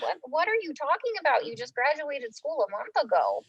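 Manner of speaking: can't believe what she hears; disbelieving. Retold or imitated. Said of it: "And I'm like".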